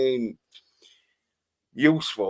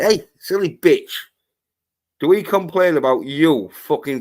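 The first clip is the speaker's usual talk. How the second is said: angry telling-off. Pretend. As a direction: tear into her like she's in the room. Telling off a critic directly.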